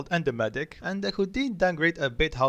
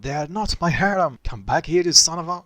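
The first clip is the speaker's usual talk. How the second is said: slightly raised, indignant shout; mild shout; 3 semitones higher, 4 dB louder than usual. Acted. Deku shouts after a friend teasing him, mild shout. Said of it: "Deku shout".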